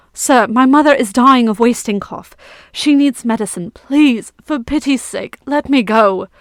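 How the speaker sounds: a hint of a desperate boy begging; boy begging the knight for his dying mother, near tears; tearful begging. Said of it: "Kieran begged, tears welling".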